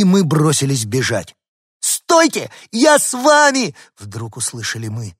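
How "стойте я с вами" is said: very high, loud plea; little dog calling to be taken along; small dog's cry. Acted. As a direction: squeal after them to wait. Little dog calling after them.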